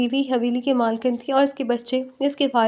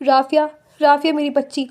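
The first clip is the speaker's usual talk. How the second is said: crying out. Acted. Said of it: "سحر بیگم روتے ہوئے چلائی".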